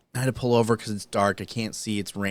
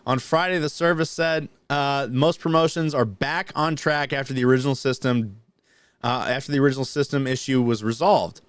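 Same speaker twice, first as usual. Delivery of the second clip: article read aloud, slightly raised pitch; news read; 3 semitones higher than usual. Real, not acted. Host continuing the Marine promotion story, news read.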